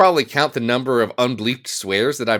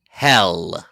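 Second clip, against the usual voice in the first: low, deliberate swear close to the mic; mock-gritty low cussing; carefully articulated swear; 7 semitones lower than usual. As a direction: enunciate it low and solemn into the mic. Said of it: "close to the mic so you can articulate it".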